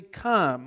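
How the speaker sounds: "Come" held and falling; weight on "Come" as the quoted command; emphatic come. A narrator's reading. Preacher pointing out a pattern in the verses, emphatic. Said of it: "put a special emphasis on the word come".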